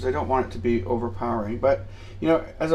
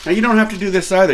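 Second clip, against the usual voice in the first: loud, fast, higher Viking boom; 8 semitones higher, 9 dB louder, faster than usual. Acted. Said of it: "I would do a Danish accent".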